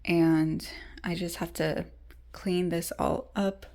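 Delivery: hushed whisper. Real, not acted. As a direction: whisper so nobody wakes. Whispers through the vlog.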